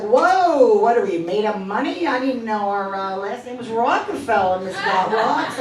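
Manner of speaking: loud whoa, then mock scolding; lightly acted parental sarcasm; sarcastic mom. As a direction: scoff like a put-upon mother. Mother scoffs at money request.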